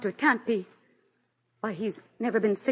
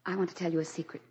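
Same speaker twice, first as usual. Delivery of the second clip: softer, quick secretive tone; hushed confiding; 3 semitones lower, 7 dB quieter, faster than usual. Acted. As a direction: lean in to share a secret. Telling a secret.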